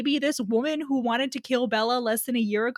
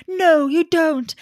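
mock firm refusal; 8 semitones higher, 8 dB louder, slower than usual. Mock Jacob forbidding.

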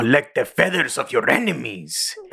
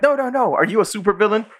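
much higher, eager fangirl voice; excited goth girl; 11 semitones higher than usual. Retold or imitated. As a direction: gush at her like a starstruck teen. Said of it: "And he's like".

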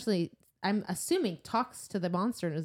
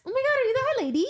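mock starstruck monster; 4 dB louder, much faster than usual. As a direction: mimic a monster gushing like a fan. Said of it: "is that how you picture it".

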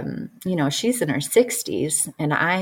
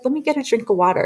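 higher, startled deflection; flustered; 8 semitones higher, much faster than usual. Retold or imitated. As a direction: brush it off, rattled. Shocked while being choked.

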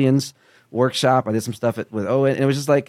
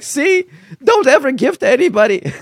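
much higher and laughing, a mock-bitter complaint; hammed-up resentful squeal, louder; 14 semitones higher, 7 dB louder than usual. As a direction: laugh through the petty complaint.

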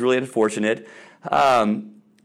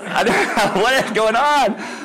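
real laugh through high, drawn-out words; 9 semitones higher, 3 dB louder, slower than usual. Real, not acted. Pastor reacts to the video, laughing. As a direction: talk while cracking up.

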